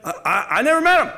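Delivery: stammering, rising high and loud; panicked denial. Acted. Peter denying Jesus to the crowd, panicked and loud. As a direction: blurt it out like a cornered man.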